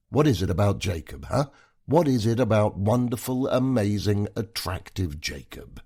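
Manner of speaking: mocking praise, rising loud; sarcastic. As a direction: sneer out the compliments.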